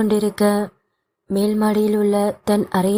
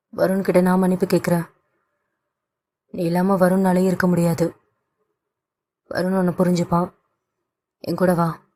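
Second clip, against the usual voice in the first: gentle father; faster than usual. Acted. Father pleading with daughter.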